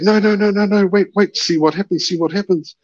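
high, rapid-fire pleading to wait; reenacted insistent plea; retold urging. Urging her to stay.

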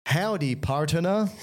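put-on playful parody of an American accent; funny US accent. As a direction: put on a hammy Southern US twang. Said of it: "those funny accents in the U S".

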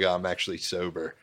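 "sober" with a rounded long O; round Philly O. Retold or imitated. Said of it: "made the O too round".

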